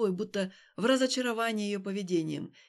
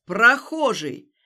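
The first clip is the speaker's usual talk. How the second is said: shouting; 6 dB louder than usual. Acted. Stas shouting at Alina over the stranger. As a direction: bellow it at her.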